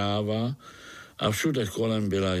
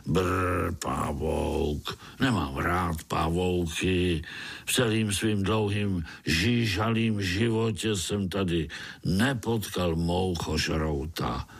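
lower, disgusted worm; voice twisted with anger; 4 semitones lower than usual. Acted. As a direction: spit out your dislike of spiders. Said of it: "hlas celý skřivený zlostí". (zlostně zkřiveným hlasem)

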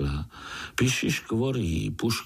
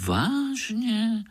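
surprised; 13 semitones higher than usual. Acted. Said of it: "podivil se Pája".

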